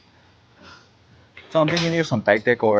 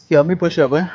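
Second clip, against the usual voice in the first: louder; 7 semitones higher, 4 dB louder, much faster than usual. Real, not acted.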